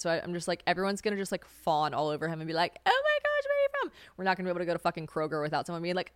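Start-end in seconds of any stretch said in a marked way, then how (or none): 2.8-3.9 very high-pitched squealing admirer; mock a gushing fan way up high; fawning fangirl. Imitates Americans fawning over his accent.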